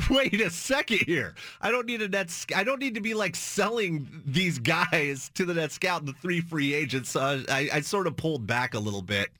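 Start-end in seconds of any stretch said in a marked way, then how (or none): 0.1-7.1 sudden realization. Retold or imitated. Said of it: "And I'm like".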